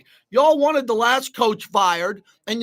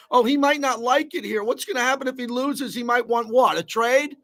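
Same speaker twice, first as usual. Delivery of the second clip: higher, mock whiny fan voice; 3 semitones higher than usual. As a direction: mimic the fretting fans with scorn. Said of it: "Everybody bitching about quitting".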